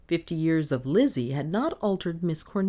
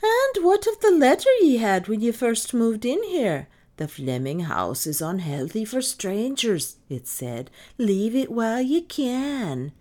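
Irish maid, obdurate; 8 semitones higher, 6 dB louder than usual. A narrator's reading. Maid reminding mistress of threatening letter, ominous. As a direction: challenge her, then intone the warning.

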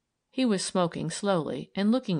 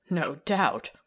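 dry, lightly lowered male voice; a hint of a scoffing man; Tom's voice; 4 dB louder than usual. Tom laughing shortly.

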